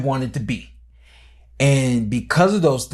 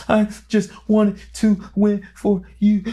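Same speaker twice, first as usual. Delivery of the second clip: slow, high, choked-up voice, almost crying; a son near tears, breaking up as he speaks; tearful plea; 7 semitones higher than usual. Retold or imitated. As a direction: plead through tears to your father. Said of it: "frantically crying".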